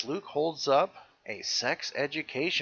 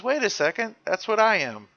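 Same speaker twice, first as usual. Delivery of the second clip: excited; 8 semitones higher, 6 dB louder than usual. Retold or imitated. Excited retelling of Luke.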